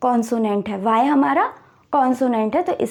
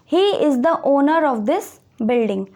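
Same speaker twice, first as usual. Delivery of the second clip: slow example read; much slower than usual. Shown as a demonstration. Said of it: "teacher reads example sentence".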